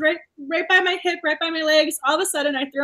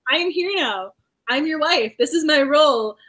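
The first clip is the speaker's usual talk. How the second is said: firm retelling of a wife's declaration, last words louder; determined wife; 5 dB louder than usual. Retold or imitated. Reader quoting the new wife to her husband, determined. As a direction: lay down the wife's role, building in emphasis. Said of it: "I love her determination".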